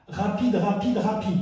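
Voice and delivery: "rapide" in short, quick succession; quick-fire dance cue. Shown as a demonstration. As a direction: fire off each "rapide" to pace a fast movement. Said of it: "lent et après deux rapides".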